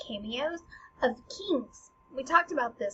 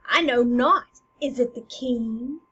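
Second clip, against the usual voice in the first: loud, excited stage declamation; excited Hamlet; 8 dB louder, slower than usual. Acted. Hamlet wondering if he killed the king, loud and excited. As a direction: proclaim it boldly, stretching to a hopeful question. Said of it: "Hamlet's excited".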